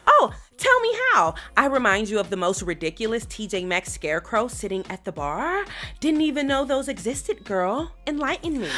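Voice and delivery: soft sneering diva; Gina. Acted. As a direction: roast her quietly and coolly. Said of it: "the Bag Lady and Gina finally meet".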